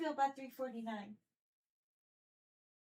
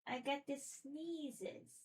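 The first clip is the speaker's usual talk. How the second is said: voicing the cat; 2 semitones higher, 5 dB quieter, slower than usual. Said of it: "She's like".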